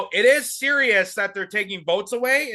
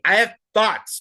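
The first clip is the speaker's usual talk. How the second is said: mocking imitation; 2 semitones higher, 4 dB louder than usual. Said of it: "A little spicy, but I have thoughts".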